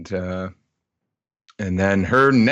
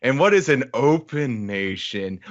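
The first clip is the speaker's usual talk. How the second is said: higher, put-on teacher voice; woman teacher; 6 semitones higher, slower than usual. Teacher prompting a class of kids, high teacherly voice. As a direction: praise the pupil, then quiz the class. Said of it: "we hear a woman saying".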